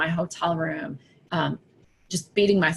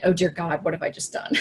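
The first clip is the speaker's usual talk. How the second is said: panicked whisper. Retold or imitated. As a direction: dread sinking into a whisper. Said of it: "And the imposter said".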